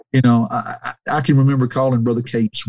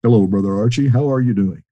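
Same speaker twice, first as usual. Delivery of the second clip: gentle, smooth voice; calm, gentle impression of a kindly preacher; Brother Elkins; faster than usual. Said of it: "I hear that gentle, smooth voice".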